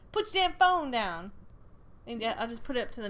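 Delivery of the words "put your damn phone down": stern sign. Pretend.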